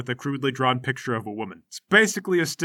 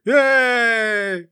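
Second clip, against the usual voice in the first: put-on high, loud cheer of the boys; crowd cheer; 8 semitones higher, 4 dB louder than usual. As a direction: yell it like a crowd of teens.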